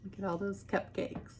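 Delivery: hushed, unvoiced whisper; whispered reveal. Reading to children, a secret whispered about the cupcakes. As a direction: breathe it like a secret.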